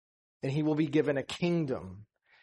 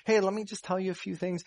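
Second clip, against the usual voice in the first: mild response; 4 semitones higher, faster than usual. Retold or imitated. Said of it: "he doesn't just mildly respond".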